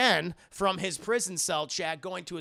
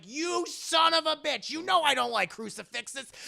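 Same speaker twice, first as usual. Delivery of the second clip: loud, higher cry of indignation; mock outrage; 9 semitones higher, 5 dB louder than usual. Dracula cursing the man with the crucifix, hammed-up outrage. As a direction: curse him like a thwarted vampire.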